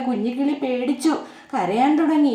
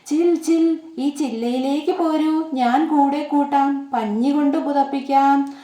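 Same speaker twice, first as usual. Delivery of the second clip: kind squirrel. Acted. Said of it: "അണ്ണാൻ ... പറഞ്ഞ്".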